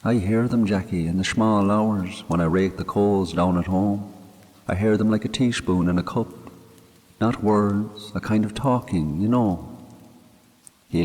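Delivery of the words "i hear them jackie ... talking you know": a grieving Irish countryman talking to his dead friend; man murmuring to a grave; Mick's voice. Acted. Mick speaking at the graveside.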